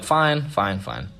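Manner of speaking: high, repeated retold giving-in; caving in. Reluctant teen agrees to go upstairs, retold caving. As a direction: give in under a friend's pressure. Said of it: "eventually I caved".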